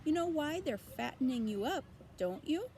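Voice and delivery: put-on high, bleating old ewe; nosy old sheep greeting. A narrator's reading.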